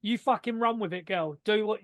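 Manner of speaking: light put-on Cockney accent, barely shifted; mock Cockney accent. Podcaster mimicking Tony Khan to a wrestler, in a light Cockney accent. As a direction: toss it off in a lightly voiced London Cockney. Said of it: "he's not said it in a Cockney accent like that".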